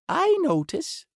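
high duck voice scolding the doctor; bossy duck. Acted. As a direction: insist like a fussy duck. Duck questions Pushmapulya.

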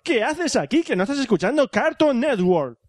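slow, emphatic promo voice; mock ad pitch. Host plugging a rival podcast, slow mock advert voice. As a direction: sell the podcast like a commercial. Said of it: "Espacio patrocinado por Cartoon Network".

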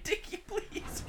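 high, unvoiced pleading whisper, laughing; hammed-up begging mom, whispered; mock mom whisper. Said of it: "she's like".

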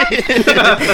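mock-enthusiastic kid's yell; eager cheer. Sixth grader committing to a religion, eager mock cheer.

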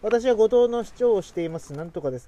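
deliberate mock-official introduction; formal self-introduction. Asking the friend how a mayor introduces himself, in a mock formal voice. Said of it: "っていう時なんて言うんですか".

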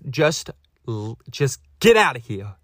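mock anger, struggling to get it out; mad. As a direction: pretend exasperated dismissal. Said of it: "What if I was that mad?".

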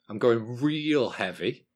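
lightly hammed-up radio DJ delivery, drawn out; Tim Westwood. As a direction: stretch it slowly like a hype DJ. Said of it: "introduced that drink like I'm Tim Westwood".

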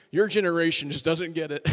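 lightly voiced unhurried old soul; a hint of a weary elder lecturing; mild imitation of a slow-talking guy. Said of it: "like molasses rolling out of his mouth".

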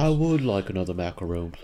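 mock royal British accent; politely posh British request; Prince Harry. Friends doing the Prince Harry, posh British. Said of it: "Oh, the Prince Harry".

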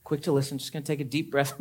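soft, measured self-control; hushed steady patience; calm restraint. Pretend. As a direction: talk yourself down quietly. Voicing a calm restrained reply.

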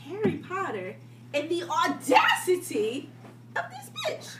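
mock title announcement. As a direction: announce it like a grand movie title. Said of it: "something I like to call".

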